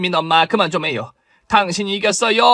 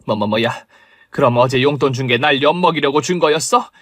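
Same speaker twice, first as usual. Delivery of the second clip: rising into high panicked yells; panicked fury; 4 semitones higher than usual. Acted. Caught gambler screams at the crowd to get out of her way, frantic yelling. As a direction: shove everyone aside in a frantic rage. Woman exposed, panicking and fleeing.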